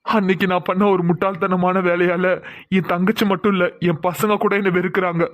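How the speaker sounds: slow, tearful confession; husband crying to his wife about his own mistake; weeping self-blame. Acted. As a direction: choke out the guilt slowly. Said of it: "தயவு செஞ்சு அழுகாதீங்க".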